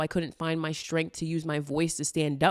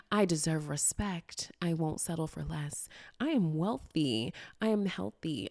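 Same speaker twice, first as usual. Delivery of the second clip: affirmations; 5 dB quieter than usual. Shown as a demonstration. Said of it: "saying my affirmations".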